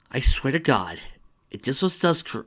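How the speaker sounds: building from loud complaint to a high, loud outburst; rising frustration exploding at the end; exasperated rant. Real, not acted. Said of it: "reader ranting about the plot".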